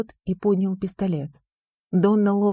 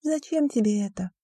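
pitying headmistress; 3 semitones higher than usual. A narrator's reading. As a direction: feel sorry for the boy. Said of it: "с жалостью посмотрела".

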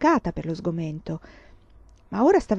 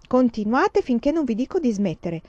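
triumphant; 5 semitones higher than usual. Acted. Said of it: "strano tono trionfante".

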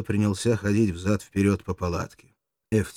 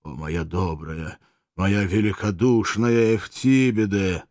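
tender; slower than usual. Acted. German moved, tender.

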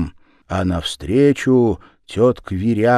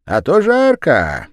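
голос Верявы; 8 semitones higher, 7 dB louder than usual. A narrator's reading. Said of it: "Верява говорит".

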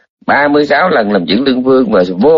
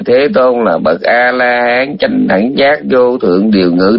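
parrot-like rote recital; slower than usual. Retold or imitated. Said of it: "đọc như con két".

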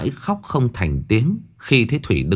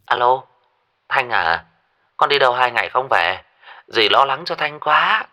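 worried; 2 semitones higher than usual. Acted. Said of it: "Giọng của bà Tâm lo âu".

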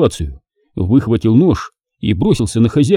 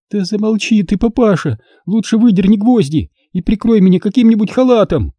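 higher, irritated pained command; moaning through pain; 10 semitones higher than usual. Acted. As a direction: snap at father through the pain. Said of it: "простонала Алёна".

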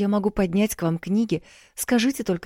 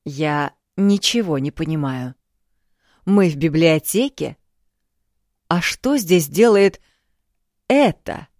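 louder, rising indignant demand; rude outburst; 4 dB louder than usual. A narrator's reading. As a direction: bark it out as an offended king. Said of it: "от грубости его величества".

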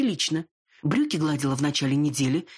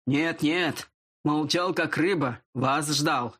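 toothy grin; much slower than usual. Acted. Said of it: "оскалился в улыбке шеф Вульф".

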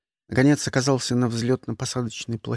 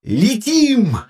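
high, louder cry of joy; ecstatic yell; 8 semitones higher, 6 dB louder than usual. A narrator's reading. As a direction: whoop it with delight. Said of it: "восторженно завопил Шарль". (восторженный вопль)

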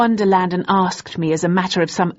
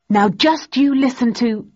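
higher, louder angry start; 7 semitones higher, 4 dB louder than usual. A narrator's reading. Thursday angrily protesting before Daisy interrupts. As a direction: bark it, then get cut off.

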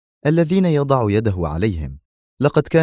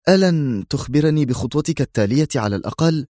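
higher-pitched, uneasy question; subdued tension; 6 semitones higher than usual. A narrator's reading. Colleague asking about the next step, faintly tense. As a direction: plead with faint nervousness. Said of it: "فسأله أسعد في توتر خافت".

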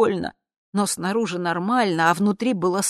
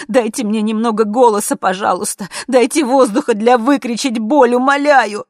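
loud, higher begging cry, rising; desperate pleading cry; 7 semitones higher, 12 dB louder than usual. Acted. Daughter begging her mother to let her in, desperate cry. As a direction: beg for air to scream the pain out.

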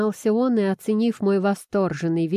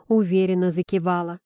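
usual speaking voice

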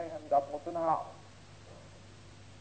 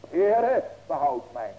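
crying out; 7 dB louder, much slower than usual. Acted. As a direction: cry out to be saved. Peter crying out, sinking.

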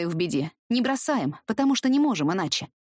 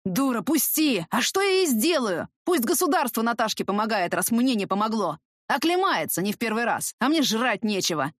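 lightly voiced drunk mother snapping back; hoarse drunken shout; 2 semitones higher than usual. Drunk mother yells at the teacher, lightly hoarse. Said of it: "кричит хриплым, пропитым голосом".

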